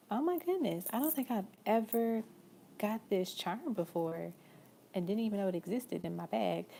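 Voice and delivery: delighted shock, hitting don't and charm; genuine surprise. Real, not acted. Reader surprised by a charm she never pulled, real surprised excitement.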